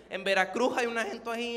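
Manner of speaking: imitated Veracruz coastal accent. Shown as a demonstration. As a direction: slide into a loose Veracruz accent. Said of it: "no solamente en Acapulco hablan así".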